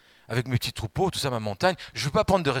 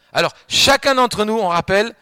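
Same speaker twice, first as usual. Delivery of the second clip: preaching shout; 9 semitones higher, 10 dB louder than usual. Acted. Peak of preaching.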